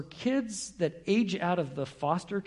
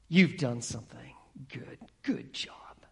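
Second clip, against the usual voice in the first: hushed whisper; 5 semitones lower than usual. Acted. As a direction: let it sink in, barely breathed. Preacher repeats the words, hushed.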